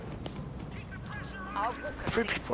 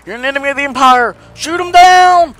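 higher, louder shouted order; imperial officer; 10 semitones higher, 9 dB louder than usual. Acted. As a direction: bark it like a trooper commander.

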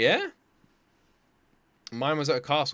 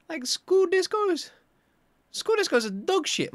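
scornful; 14 semitones higher, slower than usual. Real, not acted. Mocking school discos.

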